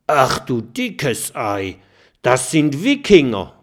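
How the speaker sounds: erschrocken überrascht. Acted. Stachelschwein erkennt Wikinger.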